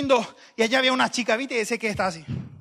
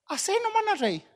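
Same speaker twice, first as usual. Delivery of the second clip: much higher-pitched comic voice of God; God's impatient retort; 13 semitones higher than usual. Acted. God answering the preacher's objections, high-pitched retort. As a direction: squeak it out high, brushing off objections. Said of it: "Y Dios me dijo".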